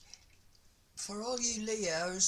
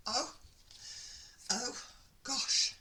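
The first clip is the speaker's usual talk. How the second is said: breathless high gasp of delight; gasping oh gosh; 5 semitones higher, slower than usual. Real, not acted. Reader thrilled by the card for Leo, breathless gasp. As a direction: catch your breath at the card. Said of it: "If I say "oh" one more time".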